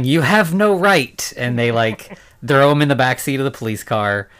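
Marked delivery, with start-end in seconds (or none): 0.0-1.3 slow, raised-pitch protest, only half yelled; mock yell. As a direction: imitate his yelling, higher and drawn out. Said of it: "And he's yelling".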